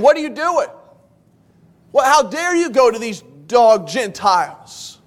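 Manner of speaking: a mock outraged church member; hostile accusation. Church member confronting Peter, mock hostile scolding. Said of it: "somebody with a hostile spirit".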